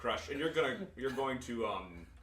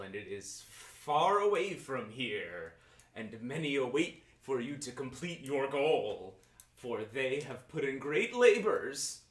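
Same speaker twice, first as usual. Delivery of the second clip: slow, swaying mystic prophecy; a rocking seer, chanting slowly; mystic fortune teller; slower than usual. Acted.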